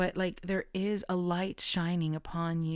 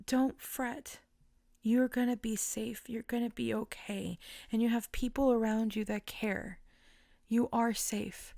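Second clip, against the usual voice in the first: reassuring; 4 semitones higher than usual. Real, not acted. Reassuring viewers while emotional.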